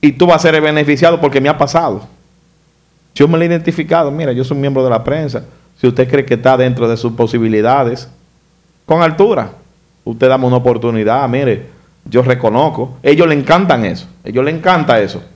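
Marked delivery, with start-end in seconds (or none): 4.1-13.0 measured, courteous self-introduction; polite, gentle. Retold or imitated. Showing how a press member addresses police, polite and gentle. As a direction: make a modest, respectful request, calmly. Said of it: "identifícate con una gentileza".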